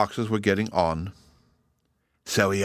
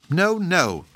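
shocked; 7 semitones higher than usual. Acted. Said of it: "rather shocked at such violent language".

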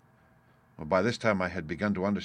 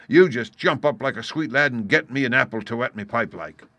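louder, offhand order; lightly voiced pirate leader; 3 semitones higher, 7 dB louder than usual. A narrator's reading. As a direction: casually send the lad off. Silver sends Dick for an apple.

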